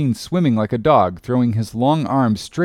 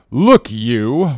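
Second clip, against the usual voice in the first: mildly raised angry warning; a touch of a roar from an irate captain; captain's roar; 4 dB louder than usual. A narrator's reading. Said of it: "roared the captain".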